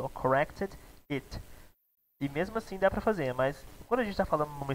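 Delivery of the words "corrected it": corrected and it split with a gap; separated words. Shown as a demonstration. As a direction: keep corrected and it apart. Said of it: "você quer falar separado".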